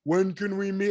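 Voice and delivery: drawn-out slow-motion question; exaggeratedly slow ask. Shown as a demonstration. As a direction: stretch each word of the question. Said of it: "doing it in slow motion".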